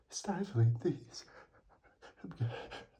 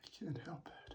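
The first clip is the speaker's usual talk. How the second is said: strained whisper; 15 dB quieter, faster than usual. Real, not acted. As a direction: whisper it helplessly. Whispered apology.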